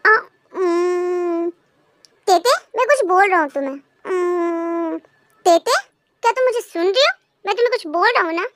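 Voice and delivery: ordinary delivery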